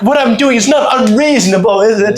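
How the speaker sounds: imitating a guy fishing for approval; pleading guy. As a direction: push him to say yes.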